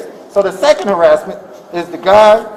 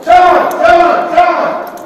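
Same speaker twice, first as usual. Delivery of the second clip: higher-pitched, insistent repeated calls; retold calling out; 7 semitones higher, 3 dB louder, much slower than usual. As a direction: call the name out, re-enacting the moment.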